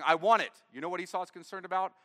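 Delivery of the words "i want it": louder whiny mock sob of want; mock crying. Preacher mocking Esau's tears, louder whiny mock cry. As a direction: whine it out like a grabbing child. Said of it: "And he's crying".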